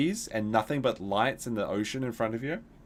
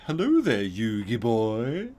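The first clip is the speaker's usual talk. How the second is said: lightly voiced flamboyant cartoon villain; drawled, slow hello like a cartoon dandy; Pegasus voice; 3 dB louder, slower than usual. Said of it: "It was like that sort of voice".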